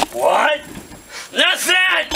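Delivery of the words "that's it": P=A; angry yell. Acted. Angry shouting at Murphy.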